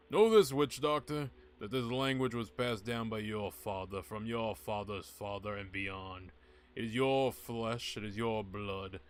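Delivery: grand, ominous prophecy read aloud; booming oracle warning the witch doctor; dramatic scroll reading. Acted. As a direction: intone it like an ancient prophecy. Reads ritual scroll dramatically.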